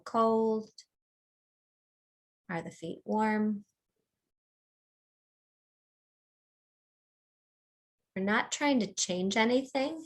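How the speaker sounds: unhurried meditation guide with long pauses; calm mindfulness-teacher delivery, phrase by phrase; guided body scan. Real, not acted. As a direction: lead them gently through a body scan, leaving space between phrases.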